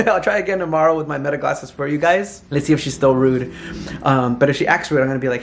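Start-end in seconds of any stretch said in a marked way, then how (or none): 0.1-3.5 light laugh leading into the line. Real, not acted. Joking to viewers about filming the rude barista, laughing. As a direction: say it through a small chuckle.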